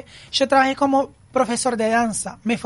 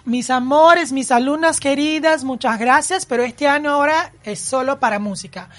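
loud, fond announcement to his students; mock teacher farewell, louder; 2 semitones higher, 5 dB louder than usual. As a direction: play it like a grand goodbye speech. Farewell speech to students, acted.

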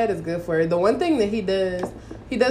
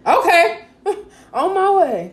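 high, laughing mock agreement; sarcastic laugh; 12 semitones higher, 7 dB louder, slower than usual. Friend laughing at a threat, high mock agreement. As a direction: chirp it back through laughter, mocking him.

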